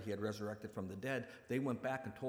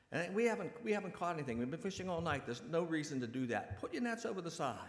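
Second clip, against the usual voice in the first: protesting fisherman; 5 semitones higher than usual. Acted. Fishermen answer from the boat.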